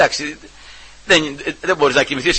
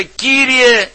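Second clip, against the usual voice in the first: high, loud desperate plea; crying out; 8 semitones higher, 4 dB louder, slower than usual. Retold or imitated. Preacher voicing the mother calling after Christ, crying out. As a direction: cry out to the Lord for your child. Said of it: "και φώναζε".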